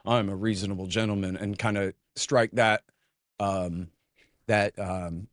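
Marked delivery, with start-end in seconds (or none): 0.0-1.4 a hint of smug condescension; mock him as calm and superior; smug gentleman voice. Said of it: "he gets to go".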